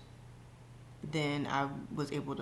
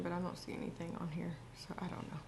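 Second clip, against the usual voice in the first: hushed unvoiced whisper; 8 dB quieter, faster than usual. Real, not acted. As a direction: drop to a breathy whisper. Checking camera for motion, unsure.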